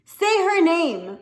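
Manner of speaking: high, loud and slow, each word hammered; slow furious scream. A narrator's reading. A son screaming into the silence at his father, slow and loud. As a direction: demand it with everything. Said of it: "Rob screamed into the silence".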